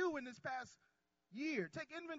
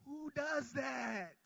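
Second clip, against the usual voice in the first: slow shout; much slower than usual. Acted. Climactic shout of catchphrase.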